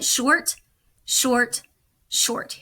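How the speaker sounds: three quick crisp shorts, the last breathed; clipped short beeps. Shown as a demonstration. Teacher to students, repeating the dots for C, crisp. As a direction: tap out the dots with your voice. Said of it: "it's the letter C".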